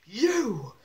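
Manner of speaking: long, high drawn-out "you"; high-pitched accusing call, stretched out; mock call-out. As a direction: call someone out across a ring. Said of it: "He points at Triple H going".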